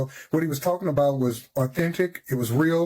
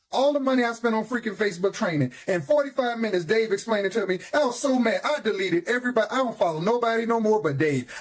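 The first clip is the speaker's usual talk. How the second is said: excited, pitched-up testimonial; 3 semitones higher than usual. Real, not acted. Thanking a trainer for results after the money spent, excited. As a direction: gush with real excitement. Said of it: "You can see the excitement in my voice".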